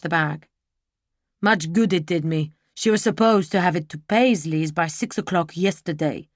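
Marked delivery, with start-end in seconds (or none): 1.4-6.3 put-on rough older man voice. Gruff coachman Barrenew.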